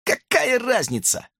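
high snappy falsetto retort; hamster barking back. A narrator's reading. Hamster snaps at Justin, high dismissive bark. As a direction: brush the question off. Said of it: "пролаял хомяк".

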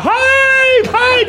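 very high, loud scream; screamed halt. Acted. Patient screams at the nurse to stop the syringe, very high scream. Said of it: "da schreit der".

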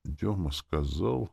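ordinary delivery, nothing marked

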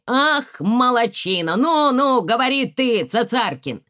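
high, loud gambler's whoops; excited cheering. Acted. Lyonya cheering the card game on, loud and excited. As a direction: egg the dealer on, buzzing with luck.

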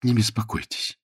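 cool, slightly understated refusal; cold. Acted. Frederick declines Jane's help from the cupboard, coldly. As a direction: decline with a chill. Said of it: "холодно ответил он".

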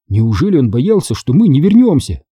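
ordinary delivery

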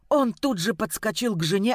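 ordinary delivery, nothing marked

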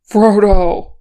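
very loud cry of a name; desperate shout. A narrator's reading. Calling the hobbit after the avalanche, desperate shout. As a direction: shout for someone lost.

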